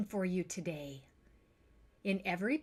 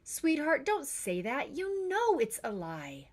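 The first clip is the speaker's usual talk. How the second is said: sadly; 5 semitones higher than usual. Acted. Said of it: "Mother said sadly".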